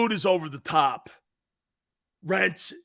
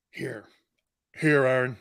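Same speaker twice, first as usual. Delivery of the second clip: whisper; 5 semitones lower than usual. Pretend. Handing ball, whispered.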